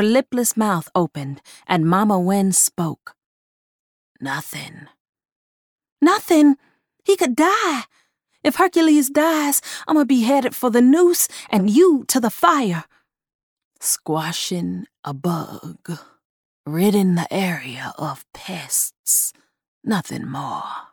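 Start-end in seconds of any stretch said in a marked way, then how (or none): 4.2-4.9 low, soft gravelly voice; gravelly doll voice. Acted. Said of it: "The gravelly voice". 6.0-12.9 high, loud frightened protest; panicked. Acted. Honeysuckle panicked argument. 13.8-20.9 slow, low, whispered gravelly voice; low gravel vigilante growl. Acted. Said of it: "The gravelly voice clashed with".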